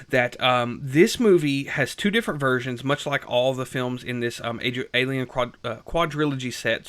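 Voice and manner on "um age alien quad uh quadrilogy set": tripping over the words; stumbling, restarting the word; stuttering. Real, not acted. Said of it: "Sorry, I'm stuttering a little bit".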